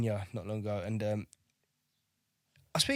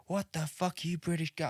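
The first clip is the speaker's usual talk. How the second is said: badly faked American accent, higher and softer; attempted Yank accent; 5 semitones higher, 5 dB quieter than usual. Retelling the base commander's rebuke to unarmed Brits, attempted Yank accent. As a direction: have a poor go at an American accent. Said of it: "I can't do a Yank accent".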